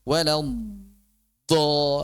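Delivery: wrong, overdone stretch; overstretched madd. Shown as a demonstration. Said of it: "Nggak perlu". ("Walad do" terlalu panjang)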